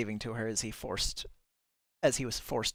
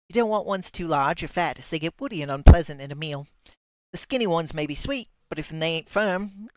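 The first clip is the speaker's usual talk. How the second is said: put-on a shaky stab at a Cockney market accent, pitched up; 4 semitones higher, 6 dB louder than usual. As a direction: play Delia as a Cockney woman, higher than usual. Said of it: "I can't nail that accent to save my life".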